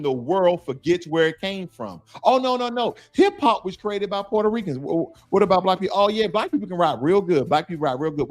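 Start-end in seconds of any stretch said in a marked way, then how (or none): 2.2-8.3 scoffing, dismissive put-on voice; mocking dismissive voice. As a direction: sneer it like a know-it-all denier. Mocking voice of deniers.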